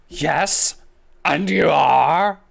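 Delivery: put-on cool, wary young woman; Jessica voice. Voicing Jessica.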